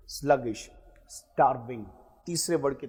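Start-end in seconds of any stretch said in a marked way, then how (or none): 0.1-0.7 स्लगिश said carefully as "sluh-gish", clear stress on the first syllable; model pronunciation. Shown as a demonstration. Teacher shows students the word, carefully enunciated. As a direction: demonstrate how स्लगिश sounds. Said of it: "मेरी pronunciation को देखते चलना".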